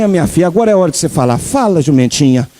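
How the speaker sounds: low, gentle fatherly voice of God; God speaking tenderly. Pretend. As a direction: coax the donkey to speak, low and kind. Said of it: "eu imagino Deus falando assim".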